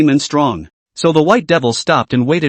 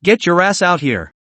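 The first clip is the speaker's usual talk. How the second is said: lightly raised call; mild yell; 3 semitones higher than usual. Acted. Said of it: "as she screamed".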